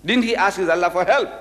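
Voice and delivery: pushy, impatient pressing; impatient demand. Retold or imitated. Reverend pressing the Maulana, impatient and insistent. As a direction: badger him for the answer. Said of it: "He started stamping his feet".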